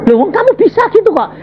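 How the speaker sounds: high, fast disbelief; incredulous retort. Retold or imitated. Preacher retelling reply to friend, high and fast. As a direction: toss it off in disbelief. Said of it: "Aku ngomong".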